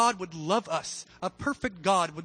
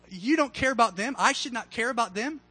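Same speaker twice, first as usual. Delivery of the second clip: higher-pitched, incredulous rhetorical questions; incredulous God; 4 semitones higher than usual. Acted. God challenging Jonah about the people of Nineveh, incredulous. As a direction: ask it in pointed disbelief, pitch climbing at the end. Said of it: "And God's like".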